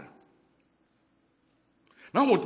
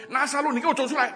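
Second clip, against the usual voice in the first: calling out; 7 semitones higher, 5 dB louder, faster than usual. Acted. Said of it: "耶稣喊的说".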